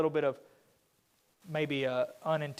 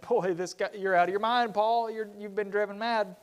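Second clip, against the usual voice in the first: mocking; 5 semitones higher than usual. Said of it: "openly made fun of Paul".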